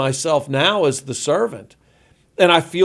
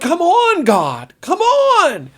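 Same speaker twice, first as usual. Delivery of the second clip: high, pleading cry upward, louder; Job crying out to God; 4 dB louder, slower than usual. Retold or imitated. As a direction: beg God like a desperate man. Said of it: "he cries out to God".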